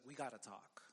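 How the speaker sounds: low, hushed "we gotta talk"; ominous request. Retold or imitated. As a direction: quote the dreaded line low and softly. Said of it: "No one ever likes the conversation".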